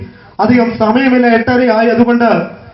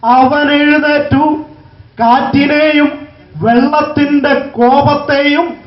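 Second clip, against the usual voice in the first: slow, drawn-out scripture proclamation; preaching declamation; 3 semitones higher than usual. Acted. Preacher repeats the verse to the congregation, declaiming slowly. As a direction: proclaim the verse in measured, stretched phrases.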